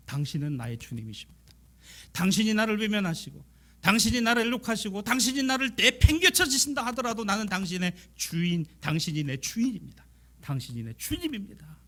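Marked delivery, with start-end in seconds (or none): 2.1-11.8 fervent confession. Acted. Woman's confession, rising fervor.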